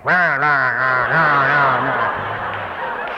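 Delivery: slow, loud chanted cheer; mock cheering crowd. The audience out front cheers him on, mock chanting. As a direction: chant like a hammed-up pep squad, fading into a laugh. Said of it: "have people out front with me going".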